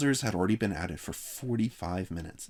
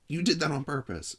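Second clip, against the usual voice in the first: stormy; 8 semitones higher than usual. A narrator's reading. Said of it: "stormed Mike".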